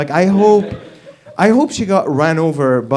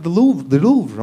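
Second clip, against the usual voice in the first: mock panic; 3 semitones higher than usual. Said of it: "she was go nuts".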